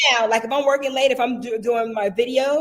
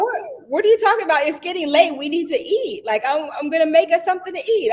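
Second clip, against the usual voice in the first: imitating husband; 7 semitones higher than usual. Husband voiced in story.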